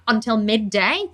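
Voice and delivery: real rant building from firm to high-pitched and fired up; heated tirade, key words stretched out, rising to a high pitch; impassioned rant. Real, not acted. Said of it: "let me have a one-minute rant".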